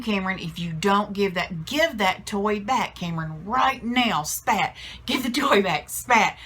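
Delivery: imitating an exasperated dad, starting controlled, building in insistence; mock scolding that gradually climbs; escalating parental order. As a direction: repeat the order, punctuate it with a sharp "spat", push harder each round. Husband's escalating orders with swats.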